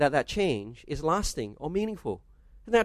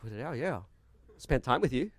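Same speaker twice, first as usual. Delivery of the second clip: much softer, lower sheepish reply with a laugh; meek husband; 4 semitones lower, 7 dB quieter than usual. Retold or imitated. Cowed husband to wife with a club, a soft sheepish reply. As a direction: cave in sheepishly.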